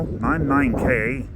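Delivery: put-on Irish accent. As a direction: read the bus details in a mild Irish accent. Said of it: "I'm gonna do the, the accent".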